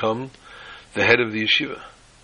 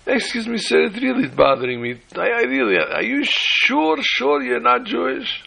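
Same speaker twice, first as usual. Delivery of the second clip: put-on whiny old Jewish mother; 11 semitones higher than usual. Old mama pestering the stranger on the bus, high and whiny. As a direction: beg him to admit it, stretching every word. Old woman asks a third time.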